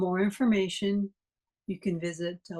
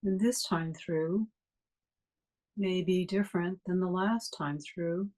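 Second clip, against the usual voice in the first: calm, even guiding voice with long pauses; guided meditation. Real, not acted. Meditation teacher leading a class to notice breathing, guided meditation. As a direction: guide listeners gently through the breath, unhurried phrases between long silences.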